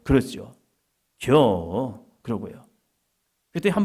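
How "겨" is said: lightly drawn-out Chungcheong word; Chungcheong dialect. Shown as a demonstration. Preacher showing his home speech, Chungcheong dialect. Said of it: "저는 충청도 말이".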